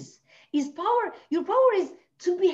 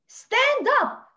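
emphatic command; 11 semitones higher, 6 dB louder than usual. Real, not acted. Urging women after loss to stand up, forceful. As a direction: stand up, higher and louder, rallying.

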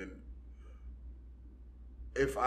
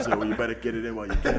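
fast, laughing; much faster than usual. Real, not acted. Joking advice, laughing.

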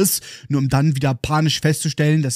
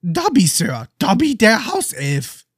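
higher elf voice, slowing at the end; squeaky elf, slow and proud; house elf voice; 6 semitones higher, slower than usual. Acted. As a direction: introduce yourself as a humble little elf. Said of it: "Die Kreatur antwortet".

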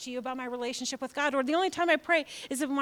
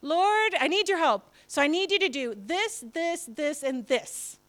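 demanding prayer; 4 semitones higher, 3 dB louder than usual. Retold or imitated. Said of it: "Any of you do that?".

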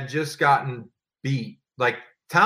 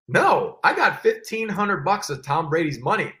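mock gloating; 5 semitones higher than usual. Gloating over winnings.

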